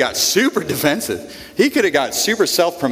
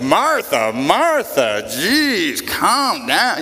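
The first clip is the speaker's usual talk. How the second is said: exasperated brush-off; much slower than usual. Retold or imitated. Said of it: "We can read that as like".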